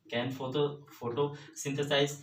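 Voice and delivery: every syllable of photosynthesize drawn out very slowly; slow dictation. Shown as a demonstration. Teacher dictating a definition to students, very slow. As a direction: spell it out for students copying notes.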